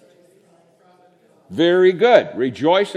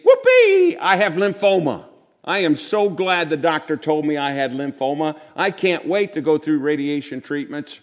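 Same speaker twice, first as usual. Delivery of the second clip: sarcastic whoopee. Retold or imitated. Preacher mocks a churchgoer cheering at lymphoma, sarcastic shriek. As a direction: fake joy at bad news, hammed up. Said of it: "I'm not saying that you say".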